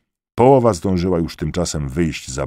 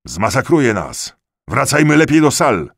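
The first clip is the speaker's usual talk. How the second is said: raised, high shouts from the back; cries from the crowd; 8 semitones higher, 6 dB louder than usual. A narrator's reading. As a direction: call out in alarm over others. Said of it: "Z tyłu odezwały się okrzyki". (okrzyki z tłumu)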